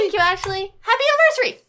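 wishing the couple a happy anniversary, cheerfully; cheery greeting. Real, not acted. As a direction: sing it out like a celebration.

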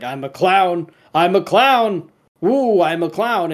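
mildly giddy, lilting mock delight; gently hammed-up private glee, with a playful woo; retold gleeful enjoyment. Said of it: "and he's enjoying it".

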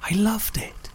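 a slow secret whisper; whispered confession. Acted. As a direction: let it slip out under your breath. Confessing a surprising feeling.

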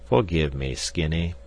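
mild soft apology; softly. Acted. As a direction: gently ask forgiveness. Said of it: "he said softly".

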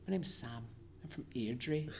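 put-on Scottish introduction; matter-of-fact imitation Scottish accent. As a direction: introduce yourself as a local in Scottish. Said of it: "I give them the Scottish accent".

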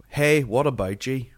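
slow imitation of a learner's Belfast accent; Korean Billy. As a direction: mimic a foreigner's careful Belfast greeting. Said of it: "Korean Billy".

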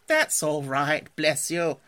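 slow, hearty reassurance; cheery. A narrator's reading. Rat forgives Mole, cheery and easy. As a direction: brush off an apology cheerfully. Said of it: "responded the rat cheerily".

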